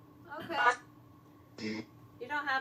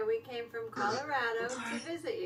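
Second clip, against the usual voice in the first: nervous night vlog whisper; 2 semitones lower, 6 dB quieter than usual. Real, not acted. Whispered introduction during ghost hunt.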